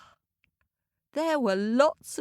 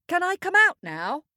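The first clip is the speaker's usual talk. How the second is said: calling out; 9 semitones higher, 3 dB louder than usual. A narrator's reading. Boy calling from the cave.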